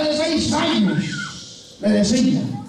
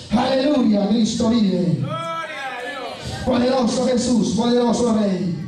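impassioned preaching. Real, not acted. Preacher testifying that the Lord opened his eyes, impassioned preaching. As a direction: testify with steady force.

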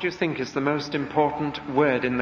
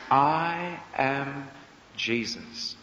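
divine voice; much slower than usual. Acted. The voice from heaven.

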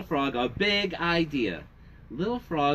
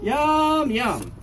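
high, loud yum yum; father leading the song's yum yum; playful yum; 11 semitones higher, 5 dB louder than usual. Shown as a demonstration. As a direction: relish it for the kids. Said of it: "What do you say then?".

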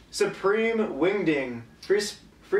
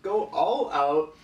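slow drawn out; 2 semitones lower, slower than usual. Pretend. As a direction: go all out slowed and dropped. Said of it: "be like a hype man".

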